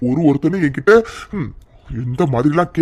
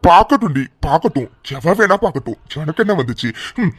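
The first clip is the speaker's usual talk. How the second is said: angry shout. Acted. Husband shouting at his wife, angry. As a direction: throw it back at her.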